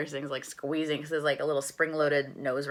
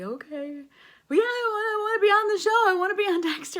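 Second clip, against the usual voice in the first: high, louder, tearful and fast; crying while talking; 8 dB louder, faster than usual. Retold or imitated. On the phone with her agent, still crying. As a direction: blubber it out through tears. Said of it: "I'm, like, crying still".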